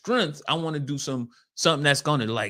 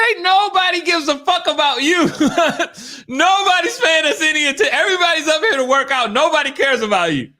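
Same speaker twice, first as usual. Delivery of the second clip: blunt put-down; 9 semitones higher than usual. Retold or imitated.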